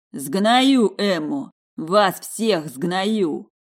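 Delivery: slow, loud, spitting rage; furious threat. Acted. Vadim to the women, slow furious threatening roar. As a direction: drag out every threat. Enraged man threatening everyone.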